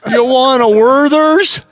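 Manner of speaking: put-on old prospector. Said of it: "talking like an old timer".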